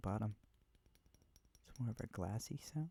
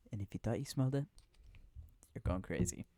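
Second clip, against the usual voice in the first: teasing; 4 dB louder than usual. Real, not acted. Teasing the viewer loudly.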